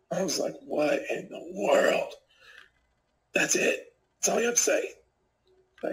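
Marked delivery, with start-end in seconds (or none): 0.6-4.9 slow, drawn-out stunned question; stunned disbelief. Retold or imitated. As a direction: let the disbelief stretch each word out. Disbelief at attacker's apology.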